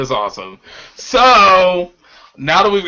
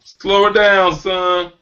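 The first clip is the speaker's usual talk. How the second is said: mock stern warning; 5 semitones higher than usual. To the friend stuffed with fried fish, mock stern warning.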